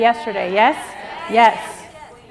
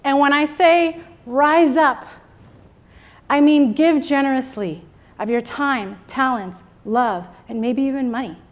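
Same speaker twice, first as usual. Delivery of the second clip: rousing speech. Acted. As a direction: preach empowerment like a rally. Motivational speech to women.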